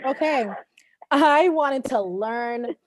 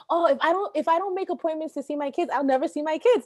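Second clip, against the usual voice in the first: imitating co-host; 7 semitones higher than usual. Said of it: "because you're like".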